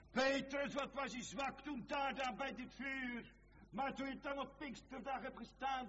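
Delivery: high, challenging sermon voice; impassioned preaching. Acted. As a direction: call out to the disciple from the pulpit. Preaching at full force, addressing Peter.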